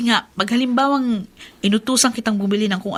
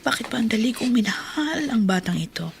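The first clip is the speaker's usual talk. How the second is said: whispered fondness to herself; hushed motherly tenderness; tender whisper. Acted. Tender private reflection.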